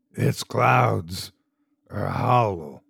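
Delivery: raspy, hoarse, rough, effortful creature voice. Narrating a story, give the strange creature's spoken words a raspy, strained creature voice. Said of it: "Its voice was raspy and strained".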